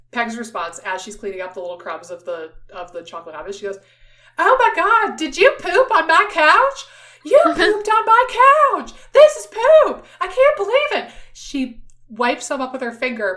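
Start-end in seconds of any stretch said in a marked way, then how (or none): 4.3-11.1 very high, very loud southern drawl. Retelling how Peg reacted while cleaning her couch: loud imitation of Peg. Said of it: "project my voice for this".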